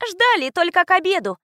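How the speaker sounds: put-on high, cheeky comeback in a child's voice; sassy little girl retort. A narrator's reading. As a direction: snap it back, pert and high. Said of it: "отпарировала мелкая".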